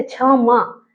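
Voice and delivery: क्षमा with a forceful छ at the start; क्षमा opened on a firm chha; pressed छा sound. Shown as a demonstration. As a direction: push the first sound of क्षमा from inside. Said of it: "ये वाला छा ऐसे".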